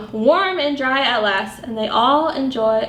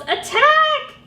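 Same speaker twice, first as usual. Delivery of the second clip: high rallying shout; battle cry; 14 semitones higher than usual. A narrator's reading. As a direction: call the charge. Badger calls to attack.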